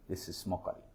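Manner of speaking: "this is mockery" repeated softly, dropping away; quiet repeat. Real, not acted. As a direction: let the second "mockery" fall quietly.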